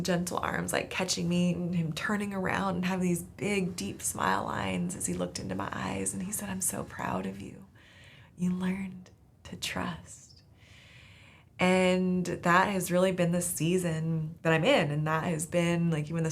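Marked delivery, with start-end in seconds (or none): 6.5-10.2 proud dad. Retold or imitated. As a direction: whisper your pride to your daughter. Dad praising daughter after catching her.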